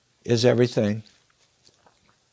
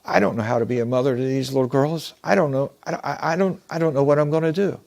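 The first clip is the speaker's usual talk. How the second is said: lightly acted distress, stammering and rising at the end; acted tearful helplessness. Widowed father confessing to a stranger after the funeral, acted as tearful. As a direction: stumble over the words as a lost, grieving father. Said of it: "He's got a tear running down".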